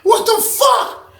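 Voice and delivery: very high, slow stunned outcry; shocked outcry. Retold or imitated. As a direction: cry out in disbelief. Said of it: "She was like".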